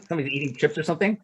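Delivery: a real laugh at a noisy listener; amused laughing aside. Real, not acted. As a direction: laugh it off and rush through. Laughs at background noise on call.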